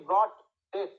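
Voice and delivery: ব্রড, short pause, ডেথ, jaw dropping on both; stress on both words. Shown as a demonstration. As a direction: weigh ব্রড and ডেথ separately. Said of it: "মনে হচ্ছে না যে দুটাতেই".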